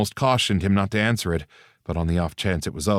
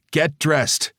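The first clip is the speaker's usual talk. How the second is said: high, loud barked order; 9 semitones higher, 4 dB louder than usual. A narrator's reading. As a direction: bark the order. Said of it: "Link barked".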